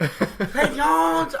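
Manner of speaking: loud, high call in a mock Asian accent; mock Asian-accented woman. Hospital staffer calling a patient, ornery mock Asian accent. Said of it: "she is ornery as hell".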